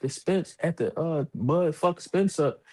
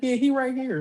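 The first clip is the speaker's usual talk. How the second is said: higher sing-song mom voice handing over the phone; imitating mom; 10 semitones higher than usual.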